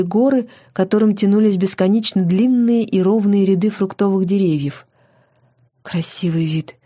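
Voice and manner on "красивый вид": soft, understated admiration; sincere admiration. A narrator's reading. Heroine admires the veranda view, softly sincere. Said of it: "Я восхитилась совершенно искренне".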